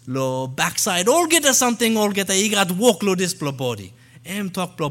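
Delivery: loud, high, forceful preaching in the national language; loud tribal-language preaching. Shown as a demonstration. Missionary preaching the passage to the church as the tribe would hear it, loud and high. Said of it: "So it might get a little loud".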